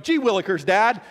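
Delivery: put-on hammy old-sitcom child; wholesome 1950s kid. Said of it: "my kids are just looking at me going".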